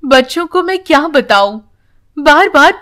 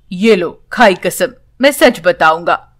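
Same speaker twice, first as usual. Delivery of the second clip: put-on old grandfather; 7 semitones lower than usual. A narrator's reading. Old grandfather swears to child.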